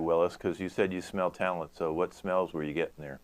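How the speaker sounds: ordinary talk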